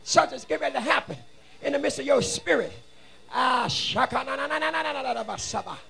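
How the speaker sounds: urgent preacher's proclamation; driving, rhythmic preaching with punched words; fervent preaching. Real, not acted. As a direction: proclaim it forcefully to the congregation. Preaches to congregation.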